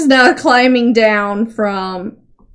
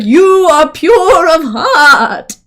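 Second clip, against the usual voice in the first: slow, drawn-out, a little louder pronouncement; sudden new horse voice; 4 semitones higher, 4 dB louder, much slower than usual. Acted. Horse to Seamus on the silo, in a slow solemn voice. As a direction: stretch each word like an oracle horse. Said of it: "I changed his, his voice all of a sudden".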